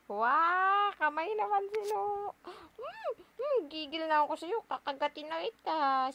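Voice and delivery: playful gigil. Real, not acted. Mother pretends to bite baby, loud playful squeal. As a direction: squeal like you could eat him up.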